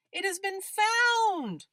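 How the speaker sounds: proud reveal of the example; emphatic model read. Shown as a demonstration. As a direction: land the finished sentence firmly. Teacher building example sentence.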